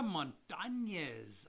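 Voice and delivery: Montañez drawn out with a ny sound; Spanish enye. Shown as a demonstration. Host greeting a viewer, savouring the ny in Montañez. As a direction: linger on the ny in Montañez. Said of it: "I like the little enya".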